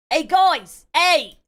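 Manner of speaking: high, loud shout to the mates; excited passenger yelling for attention; calling out. Acted. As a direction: holler to round up the group. Character calls out to the group.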